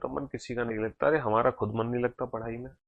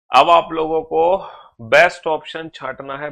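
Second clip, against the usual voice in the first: emphatic instruction; 3 semitones higher, 12 dB louder than usual. Real, not acted. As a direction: drive the point home to the class. Teacher insisting students pick answer.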